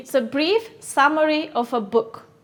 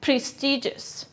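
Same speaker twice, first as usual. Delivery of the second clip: Prestigious. said slowly with the stress marked; teacher showing stress in Prestigious; stress shown; 4 dB quieter than usual. Shown as a demonstration. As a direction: lean on the stressed syllable of Prestigious. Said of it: "Where is the stress?".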